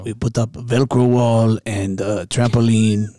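put-on slow, stilted foreign-accent boast; lightly accented founder, taking it slowly; mock company founder. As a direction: list office attractions slowly in a put-on accent.

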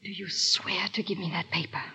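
whispered, secret bargain; hushed whisper. Acted. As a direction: breathe it so no one overhears.

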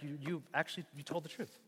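endearing, gently affirming; quietly tender commendation. Shown as a demonstration. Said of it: "like an endearing".

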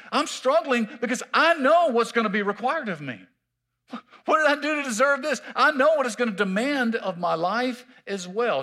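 voicing Mary. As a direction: speak as Mary, blessed yet troubled.

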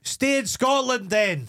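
slow, high scoff; drawn-out mock exasperation; exasperated. Real, not acted. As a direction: stay put then, pitched high and slow. Exasperated at expats.

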